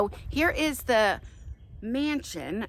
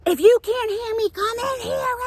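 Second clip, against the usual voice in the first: retold angry yell, higher and louder; angry call; 12 semitones higher, 4 dB louder than usual. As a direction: call him in from the other room, fed up. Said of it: "Now I'm pissed".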